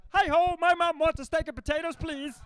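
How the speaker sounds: high, loud Kermit the Frog voice; Kermit-style Muppet voice. Retold or imitated. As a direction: chirp it like Kermit. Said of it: "I learned it mostly from Muppets".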